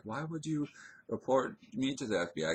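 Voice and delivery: high-pitched baffled question; retold incredulity. Retelling a reply to friend's FBI remark, incredulous. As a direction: throw the question back high, in disbelief.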